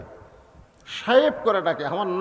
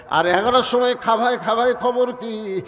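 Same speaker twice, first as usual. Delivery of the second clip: sarcastic mimic; 4 semitones higher, 4 dB louder than usual. Husband mocking wife's fuss.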